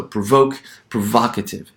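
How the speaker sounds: "provoke" then "provocative", stress on VOKE and VOC; same stressed syllable. Shown as a demonstration. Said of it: "that same syllable that's gonna be stressed".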